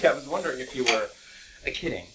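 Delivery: lightly voiced copy of a friend; imitating Nick. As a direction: echo his words in his style. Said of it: "Is that your me impression".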